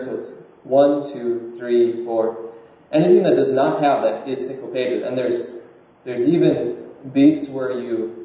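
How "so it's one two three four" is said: one stressed and three lighter in one, two, three, four; counted beat with stress. Shown as a demonstration. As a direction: tap out the count, strongest on one. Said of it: "the normal emphasis on the first with a slightly less emphasis on the third".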